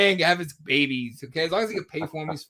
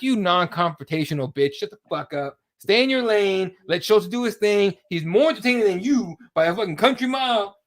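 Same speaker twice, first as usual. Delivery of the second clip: acted heated rant, building louder and higher; mock telling-off; 3 semitones higher, 4 dB louder than usual. Host imagines scolding a rival journalist, mock angry and building. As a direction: tear into him, rising as it goes. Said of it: "And I'm like".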